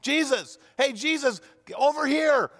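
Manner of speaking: high, pleading calls across a distance; calling out. Acted. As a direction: cry out to Jesus from far off, then fade to a plea. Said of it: "they start yelling".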